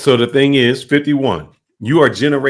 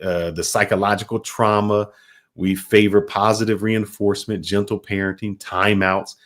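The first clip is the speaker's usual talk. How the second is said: mock younger generation. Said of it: "where they say".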